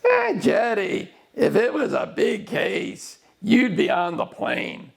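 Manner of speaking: lightly imitating a Russian investigator's heavy Russian accent. Investigator telling the lawyer to fly out, in a heavy Russian accent. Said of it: "in a very heavy Russian accent".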